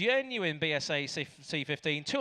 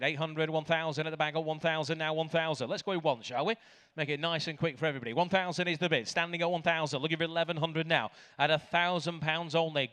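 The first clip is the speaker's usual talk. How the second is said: auctioneer. Real, not acted. Auctioneer calling bids.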